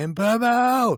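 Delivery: mock very high, long stretched, drawn-out shriek. Retelling a moment while driving back from Kingston: imitating own scream. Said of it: "and I just scream".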